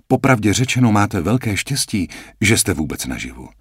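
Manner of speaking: lehce naznačená sestřička, vyšším hlasem; lightly voiced nurse. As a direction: hraj vlídnou sestřičku, trochu výš. Nurse character voice. (sestřička vysvětluje Jackovi, kde je, mírně vyšším hlasem)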